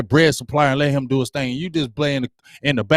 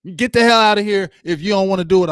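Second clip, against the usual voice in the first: raised, higher no-nonsense coach laying down the law; tough coach; 5 semitones higher, 3 dB louder than usual. Retold or imitated. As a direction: play the hard-line coach telling players to leave. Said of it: "I want that coach".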